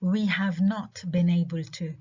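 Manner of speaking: "have" stressed before "not". Shown as a demonstration. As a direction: lean on "have" ahead of "not". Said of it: "Have و should".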